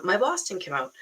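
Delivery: milder Boston accent, second attempt; retry it in an everyday Boston accent. Coach correcting her New York slip, light Boston accent. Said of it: "that's a little bit New York, but".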